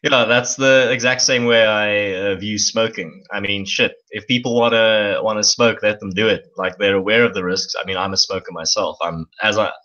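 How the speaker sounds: talking around a cigarette; words through a cigarette; cigarette in mouth. Real, not acted. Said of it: "currently sitting with a cigarette in my mouth".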